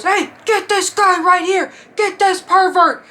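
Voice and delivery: high, slow, drawn-out yell; hammed-up indignant shout; outraged concertgoer. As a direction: imitate a man reporting a pervert to security. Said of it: "this guy goes".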